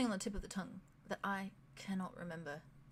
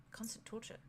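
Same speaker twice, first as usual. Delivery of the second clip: breathy hushed whisper; 2 semitones higher, 12 dB quieter than usual. Acted. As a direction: breathe it out, barely voiced. Whispered aside in character.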